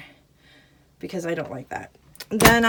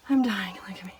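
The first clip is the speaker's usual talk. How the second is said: breathless whisper after hard work; winded whisper, worn out; out of breath. Real, not acted. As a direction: gasp it out, spent from making the bed. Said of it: "I am dripping with sweat".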